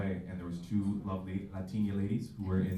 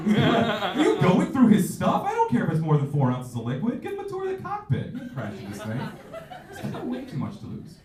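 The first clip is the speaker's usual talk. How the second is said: higher louder coworker scolding; mock guard scolding; 12 semitones higher, 7 dB louder than usual. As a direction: defend the passenger indignantly.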